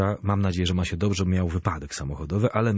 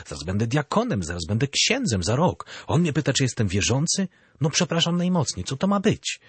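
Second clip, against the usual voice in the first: rising, higher-pitched outrage building to the end; indignant inner outburst; 5 semitones higher than usual. Retold or imitated. Seminarian recalls his inner outrage at confessor's question, higher indignant pitch. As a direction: replay the shocked thought that he dared ask. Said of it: "Zbulwersowany wręcz byłem wewnętrznie".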